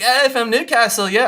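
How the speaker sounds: a clumsy, mocking Newcastle accent, pitched high; bad Geordie accent. Imitating the Newcastle lady chatting up the wingman, in a bad Geordie accent. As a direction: ham up a Geordie accent and get it a bit wrong. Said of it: "this is a horrible accent".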